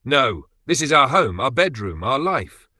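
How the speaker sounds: loud, high cry stressing "our"; anguished protest. Acted. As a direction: throw every "our" at him in despair. Wife refuses to leave home.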